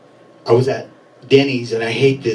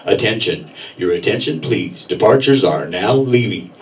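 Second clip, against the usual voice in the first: a mild take on a station PA announcer; bus station announcer; 5 semitones lower than usual. Retold or imitated. Comic imitating the Greyhound announcer in English, lightly lowered. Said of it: "first he says it in English".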